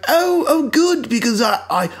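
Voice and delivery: high put-on voice, mock relief; relieved character. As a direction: pitch it high, acting relieved.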